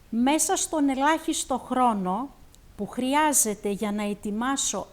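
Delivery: expressive Greek recital, phrase by phrase with pauses; poetry recitation. Acted. Host reciting the translated war poem to the audience, expressive recitation. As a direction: declaim each image, then let it settle. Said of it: "απαγγείλω κι εγώ".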